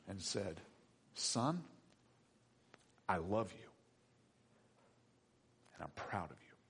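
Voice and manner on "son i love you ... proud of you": tender father. Acted. God's words voiced tenderly.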